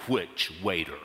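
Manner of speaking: softly loaded question, dropped right down; pointed questioning. Retold or imitated. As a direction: ask it low and ominously, as the retold clerk. Desk clerk's pointed question, retold.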